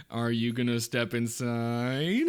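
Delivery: teasing question. Acted. Game master puts a teasing question.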